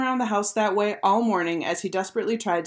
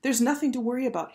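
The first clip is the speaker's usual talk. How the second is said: higher, easygoing reassurance; mildly soothing, pitched up; assuring; 6 semitones higher, faster than usual. A narrator's reading. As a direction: lightly reassure a nervous friend. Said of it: "he said, assuringly".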